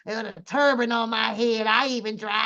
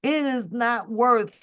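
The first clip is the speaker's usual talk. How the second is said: usual speaking voice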